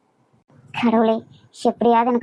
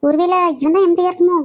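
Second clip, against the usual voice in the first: higher-pitched startled aside; alarmed surprise; 5 semitones higher than usual. Acted. Applicant spots her nemesis in the MD's room, alarmed surprise. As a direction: wonder in raised pitch, taken aback.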